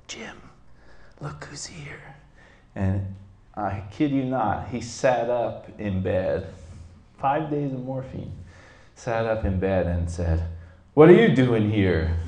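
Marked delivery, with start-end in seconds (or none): 0.1-2.2 soft whisper into an ear. Retold or imitated. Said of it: "she whispers in his ear". 10.9-12.2 loud, startled retold exclamation; astonished outburst. Dying uncle suddenly sits up, astonished.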